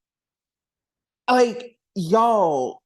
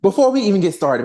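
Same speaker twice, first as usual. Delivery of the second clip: loud push; 3 semitones higher, 6 dB louder, faster than usual. Real, not acted. Repeats phrase in shifting voices.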